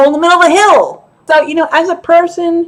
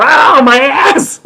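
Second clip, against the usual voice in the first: loud, slow comic howl; hammed-up cry of pain; mock pained wail; 4 dB louder, much slower than usual. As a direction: wail it out for laughs. Replays hot seat outcry as clip.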